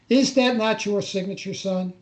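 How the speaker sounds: retold demand, half-hearted angry challenge; mock angry officer. Major pointing at the signed form, mildly stern. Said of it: "now he's got his angry face on".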